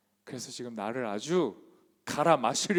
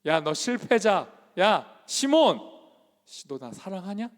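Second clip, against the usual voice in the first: loud, slow sneering call of yah and Simon; mock contemptuous jeer; 4 semitones higher, 7 dB louder than usual. 실패자라 부르며 비웃는 가짜 예수의 조롱하는 외침. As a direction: drag out the insult like a bully. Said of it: "이렇게 묻는 겁니까".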